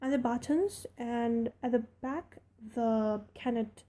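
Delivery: put-on friendly servant girl rattling on; Yorkshire maid Martha. Martha speaks again.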